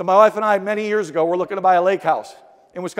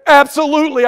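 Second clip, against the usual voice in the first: excited yes; 5 semitones higher, 8 dB louder than usual. Retold or imitated. Eager yes to closing offer.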